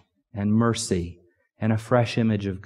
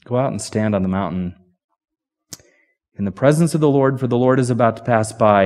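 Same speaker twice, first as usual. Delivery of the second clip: fast and louder, pressing on; quick retelling; 4 dB louder, faster than usual. Shown as a demonstration. Preacher rereading God's command to Elijah, fast and louder. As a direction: rush the command toward the storm. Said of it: "I want you to hear what isn't said".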